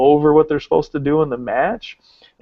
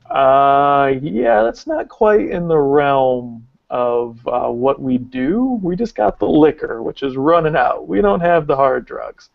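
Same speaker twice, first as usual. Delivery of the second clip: slow, drawn-out hedging reply; hesitant, reluctant letdown, words dragged out; awkward refusal; slower than usual. Retold or imitated. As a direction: stretch it out as you politely back away. Acted awkward refusal to a wrestler.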